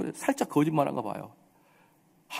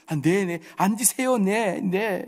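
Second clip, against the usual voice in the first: higher, fawning mock politeness; over-nice; 5 semitones higher, much slower than usual. Believer receiving late-coming visitors, mock over-nice. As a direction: imitate an overly accommodating host. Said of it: "그냥 착해 빠져가지고".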